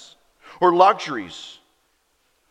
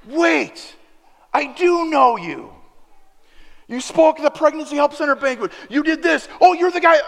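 recognition; 10 semitones higher, 6 dB louder than usual. Retold or imitated. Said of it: "He goes".

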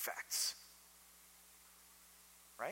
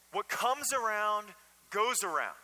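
slow, higher, louder New England drawl on the saying; New England accent; 5 semitones higher, 5 dB louder than usual. Retold or imitated. Pastor quoting his atheist father in his New England accent. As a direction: lean on comes and goes like a New England dad. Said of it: "in his thick New England accent".

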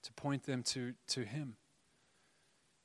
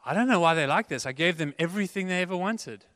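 puzzled mother; 4 semitones higher, 6 dB louder than usual. Retold or imitated. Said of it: "The mother will go".

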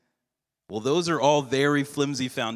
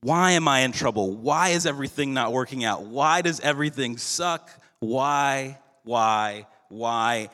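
repeated why rising in mild anguish; plead, then let the whys fade; understated desperate lament; crying out; 2 semitones higher than usual. Retold or imitated. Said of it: "He cries out".

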